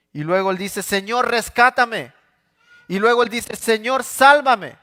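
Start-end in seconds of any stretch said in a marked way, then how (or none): 0.8-2.1 pleading cry. Acted. David cries out to God. 3.6-4.8 high, loud and slow plea; anguished cry. Acted. David crying to God for salvation, high slow shout.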